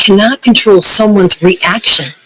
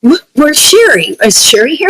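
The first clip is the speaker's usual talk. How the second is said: curious coworker; 7 semitones higher than usual. Retold or imitated.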